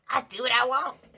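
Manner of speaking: bad cartoon voice, high and loud. Describing how the listener acts, then doing a bad Cartman impression. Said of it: "sorry for a really bad impression".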